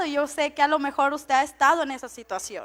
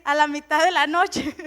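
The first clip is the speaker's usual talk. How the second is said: giggling "noche"; laughing correction. Retold or imitated. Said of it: "Yo quise decir".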